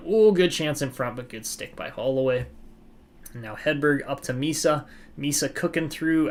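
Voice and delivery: lively hockey play-by-play call; sports commentator narrating the rush. Acted. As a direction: call the action as it happens. Live play-by-play of the game.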